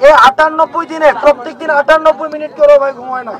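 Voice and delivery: loud, emphatic plea to a crowd; impassioned appeal. Real, not acted. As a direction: drive each phrase home loudly, with pauses. (জোর গলায় আবেগভরা আবেদন)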